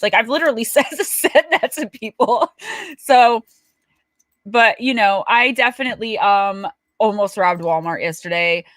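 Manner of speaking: ordinary talk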